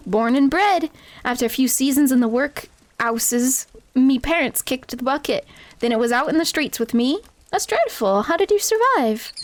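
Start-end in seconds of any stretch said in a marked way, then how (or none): 0.1-7.2 Wimby voice. Acted. Wimby's street urchin voice.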